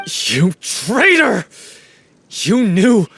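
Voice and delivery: rising anger that breaks into a shout; furious accusation. Acted. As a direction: tear into him for hiding the truth. Accusing friend over her death.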